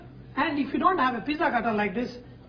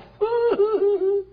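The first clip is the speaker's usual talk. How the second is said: delighted laugh; 9 semitones higher, 5 dB louder than usual. Real, not acted. Delighted at the pizza.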